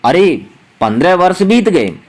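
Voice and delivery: a light teacher's demo of amazement, with "अरे" opening the line; mild surprise. Shown as a demonstration. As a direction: say it as a gently surprised exclamation. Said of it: "आश्चर्य आ जाए कि मतलब".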